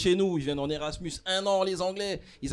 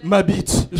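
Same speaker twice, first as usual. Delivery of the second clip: shocked disbelief; 2 semitones higher, 7 dB louder than usual. Acted. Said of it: "Il y a la variante aussi".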